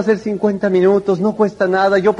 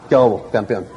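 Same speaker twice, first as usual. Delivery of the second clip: low, gruff mock-tough "¿Qué hubo, campeón?"; tough guy greeting; 9 semitones lower than usual. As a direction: act like you want to look mean. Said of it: "quería verme más malo". (saludo de tipo rudo, voz baja)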